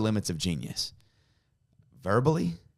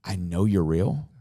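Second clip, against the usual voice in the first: slow, earnest private prayer; understated pleading prayer; retold prayer; 2 semitones lower, slower than usual. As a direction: address God haltingly, with long pauses. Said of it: "And I'm praying".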